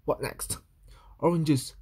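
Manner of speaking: hushed, breathy dread; dismayed whisper. Acted. Louis whispering in dismay at the oranges.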